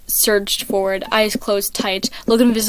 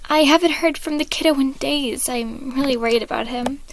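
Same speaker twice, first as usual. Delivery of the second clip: higher, caring fatherly voice; gentle dad voice; 5 semitones higher than usual. Acted. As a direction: fret like a worried dad. Patton character voice in story.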